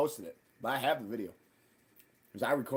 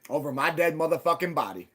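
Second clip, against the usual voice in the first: defiant; 2 semitones higher, 5 dB louder than usual. Retold or imitated. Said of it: "And I go".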